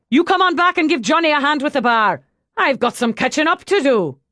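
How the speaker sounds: loud, high, hearty publican's boom. A narrator's reading. Brian blesses the couple and orders his barman about, booming. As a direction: fill the room, then rattle off the order.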